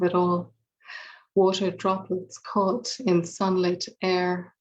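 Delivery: savouring sensual verse, unhurried; poetry reading. Acted. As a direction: let each image hang in the air. Poem read to audience.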